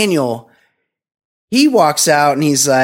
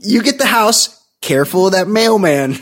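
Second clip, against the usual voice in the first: mock Miyagi; 4 semitones higher than usual. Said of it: "he's like".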